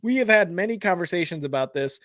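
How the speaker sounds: talking through a burp; words pushed out on a burp. Real, not acted. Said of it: "Sorry, I'm speaking through burps".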